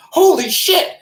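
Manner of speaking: high, loud holler of shock; retold scream. Man sees his toe pointing backwards, screaming. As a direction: cry out in pained alarm, drawn high. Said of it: "I came to a scream, a fucking holler".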